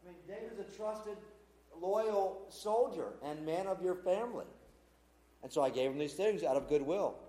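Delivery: hushed, earnest protest of innocence; a soft, pleading defence before the angry king; pleading priest. Retold or imitated. Priest Ahimelech quietly pleading his innocence to King Saul.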